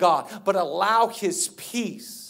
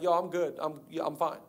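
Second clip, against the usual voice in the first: casual unbothered; 5 dB quieter than usual. Acted. Acting out calm man in den.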